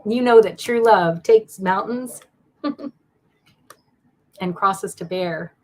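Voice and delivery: slow, emotional, close to tears; holding back tears through a laugh; choked up. Real, not acted. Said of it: "I don't know why it's making me so emotional".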